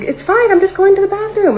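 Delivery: high, airy brush-off; breezy manager. Retold or imitated. Manager brushing off her panic, high and breezy. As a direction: lightly wave off the worry. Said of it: "And she's like".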